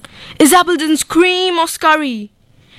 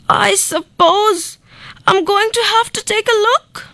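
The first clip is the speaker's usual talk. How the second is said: nervous dentist muttering; 7 semitones higher than usual. A narrator's reading. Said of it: "He muttered".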